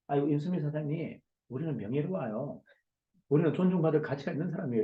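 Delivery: softly spoken mock-gentle reassurance; quiet demo. Shown as a demonstration. Lecturer mocking how calm honor talk would sound, quietly. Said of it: "어떻게 조용하게 합니까".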